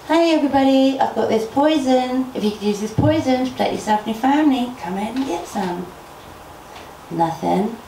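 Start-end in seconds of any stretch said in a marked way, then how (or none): 0.1-5.8 calling out again. Acted. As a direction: call out again across the field. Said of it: "And so she called out again".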